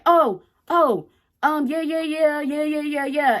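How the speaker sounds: high, mocking voice of a flustered man; sing-song yeahs like he's squirming; mocking his stammer. Imitating her cousin's dodging reply, high and mocking. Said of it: "he gonna come out and say".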